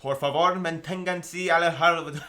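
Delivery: train station announcement. Shown as a demonstration. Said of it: "Why don't you do it?".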